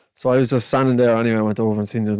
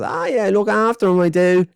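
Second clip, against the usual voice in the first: put-on much higher, louder childish rant; kid's rant; 9 semitones higher, 4 dB louder than usual. Boy ranting about empty shelves, high and loud. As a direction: splutter like an outraged little kid. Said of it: "he goes".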